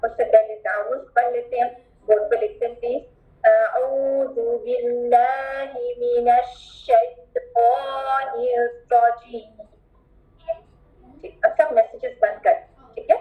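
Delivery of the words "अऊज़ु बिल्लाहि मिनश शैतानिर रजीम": drawn-out Quranic recitation; slow recitation. Shown as a demonstration. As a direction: recite each letter slowly and clearly. Teacher recites taawuz slowly. (धीमी तिलावत)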